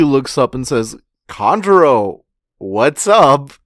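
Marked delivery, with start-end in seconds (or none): 1.3-3.5 louder imitated hail; mock calling out. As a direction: call up to someone far overhead, playfully. Luffy calls up to Kanjuro.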